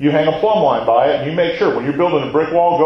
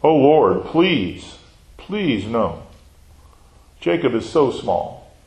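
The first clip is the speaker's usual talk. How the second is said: pleading prayer; much slower than usual. Acted. Acting Amos pleading with God.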